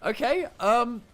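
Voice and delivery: high, loud and thrilled; excited. Real, not acted. Excited caster over Leona play.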